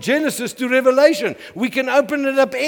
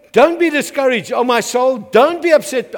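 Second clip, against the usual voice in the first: louder, raised preaching cry; preaching proclamation; 3 semitones higher, 5 dB louder than usual. Acted. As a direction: ring it out to the church. Preacher proclaims psalm to congregation.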